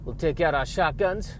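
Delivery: a put-on Southern accent morphing into another; badly held Texas accent; drifting Texas accent. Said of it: "this is morphing into another, uh, kind of accent".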